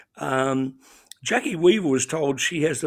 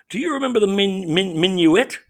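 higher, louder lightly acted belle; old southern belle; 6 semitones higher, 6 dB louder than usual. One old southern belle asking another, lightly acted. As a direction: voice a southern belle's question without a full drawl. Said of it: "in a drawl, which I won't attempt".

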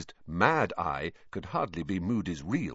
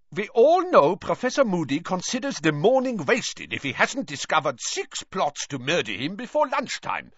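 loud sneer; 9 semitones higher, 3 dB louder than usual. A narrator's reading. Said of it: "said Karkaroff loudly".

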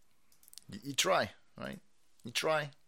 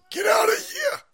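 high, loud shout at the cat; 5 dB louder than usual. Real, not acted. Streamer shouting the cat off his desk, high yell.

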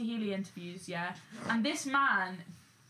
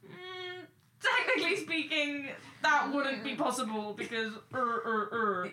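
know-it-all voice; 3 semitones higher than usual. Retold or imitated. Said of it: "technically people that go".

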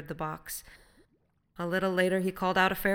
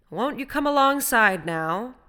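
slow, raised, steady call; even-voiced invitation; 7 semitones higher, 10 dB louder than usual. A narrator's reading. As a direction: coax him evenly across the water. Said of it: "asked Will in an even voice".

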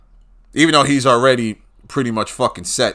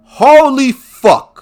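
very high, loud, drawn-out curse; appalled shout; 13 semitones higher, 11 dB louder, much slower than usual. Real, not acted. Fan reacting to his team's tryout news, appalled. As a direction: yell it slowly in disbelief.

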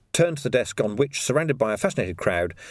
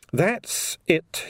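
wearily; 7 semitones higher than usual. Acted. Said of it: "he said wearily".

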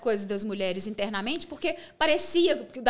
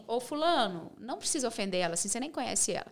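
softer, low-key quoted objection; retold discreet aside; 3 semitones lower, 6 dB quieter than usual. Colleague telling another man not to offend her, retold softly. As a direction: quietly step in to defend someone.

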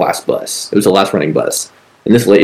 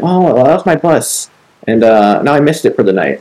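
homeless lady voice; 4 semitones higher than usual. Retold or imitated. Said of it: "And she was like".

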